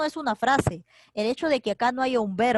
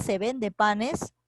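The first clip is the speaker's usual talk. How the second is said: each word drawn out slowly for the student; slow example reading; much slower than usual. Shown as a demonstration. Teacher to student, dictating an example sentence, slowly. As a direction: read the example out slowly and clearly.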